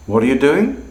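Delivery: doing rises high; rising tone. Shown as a demonstration. Teacher comparing three ways to ask. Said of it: "are all fundamentally the same question".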